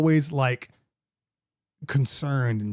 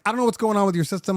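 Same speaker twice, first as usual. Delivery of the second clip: irritated caller; 5 semitones higher, much faster than usual. Retold or imitated. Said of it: "And she's just like".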